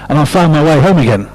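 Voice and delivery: lively picture-book read-aloud; story reading. Acted. Storyteller reading aloud to children, lively manner.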